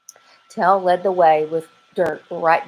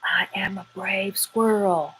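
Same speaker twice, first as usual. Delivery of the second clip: coaching mantra; 2 semitones higher, 5 dB quieter than usual. Acted. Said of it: "Repeat after me".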